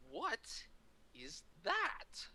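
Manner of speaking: slow, halting question, rising at the end; drawn-out retold double take; mock disbelief. Actor stops signing, questions picture.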